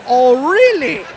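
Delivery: lightly voiced affronted German villain; a hint of a slow, vengeful German; mock offended German. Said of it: "the guy got offended and said".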